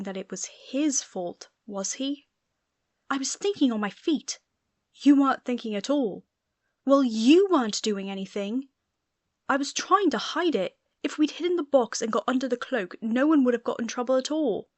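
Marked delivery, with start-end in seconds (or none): 3.1-4.4 raised, higher defensive snap; defensive retort. Acted. Quarrel between Sirius and Remus. 5.0-6.3 louder, higher cutting rebuke; sharp rebuke. Acted. Quarrel between Sirius and Remus. 6.8-8.7 loud accusing comeback; angry comeback. Acted. Quarrel between Sirius and Remus. 9.5-14.7 raised, higher heated justification; heated explaining. Acted. Quarrel between Sirius and Remus.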